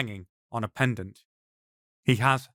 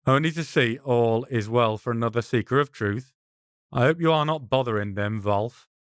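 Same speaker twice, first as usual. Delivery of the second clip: calm. Acted. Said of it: "The rabbi's voice is calm".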